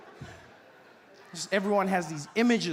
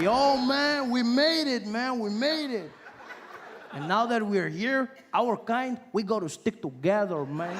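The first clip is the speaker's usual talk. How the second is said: imitated Latino buddy; 4 semitones higher, slower than usual. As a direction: play an elated guy bonding with a countryman. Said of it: "He's like".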